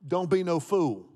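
teasing the congregation out loud; playful call out. Pretend. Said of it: "Turn to your neighbor and tell him".

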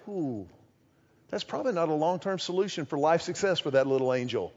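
soft, low, knowing mutter; hushed aside. Retold or imitated. Preacher quietly mocking a parent's worry, hushed. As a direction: murmur it under your breath like a wry parent. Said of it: "you just kinda like".

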